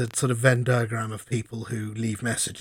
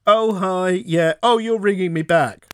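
higher, louder flustered caller; caller leaving a voicemail; 5 semitones higher, 6 dB louder, slower than usual. Retold or imitated. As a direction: play a caller caught off guard. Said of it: "I get a message that is".

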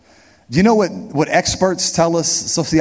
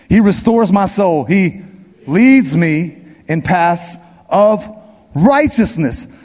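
call and response; slower than usual. Shown as a demonstration. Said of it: "That means you say it with me".

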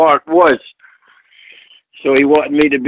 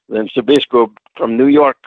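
usual speaking voice

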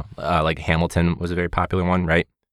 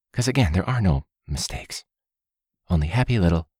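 Bob Ross impression. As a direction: gently reassure like a TV painting teacher. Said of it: "the Bob Ross mentality".

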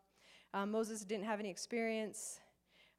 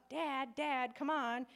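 Simba; 4 semitones higher, much slower than usual. Retold or imitated. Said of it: "when Simba wakes, wakes them up".

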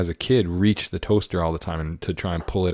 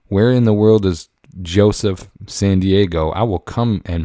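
mock threat; 5 dB louder than usual. Threatening caller, loud and slow.

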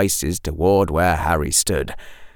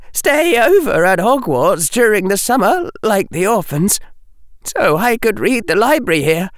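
put-on young boy voice; 13 semitones higher than usual. Outer Harry, chatty boy voice.

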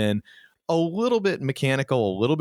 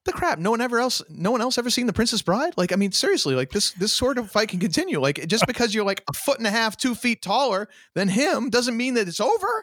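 high-pitched incredulous rant; mock indignation; 9 semitones higher than usual. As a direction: protest in exasperated disbelief, pitched up. Mock outrage at the scene's logic.

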